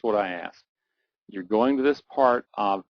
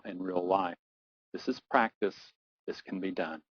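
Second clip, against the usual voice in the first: guided relaxation. Acted. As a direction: settle them back into a calm mind. Breathing and calming guidance.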